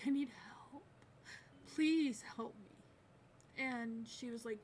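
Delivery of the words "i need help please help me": a hushed, pleading echo of the plea; whispered plea. Retold or imitated. Retold begging her mom for help.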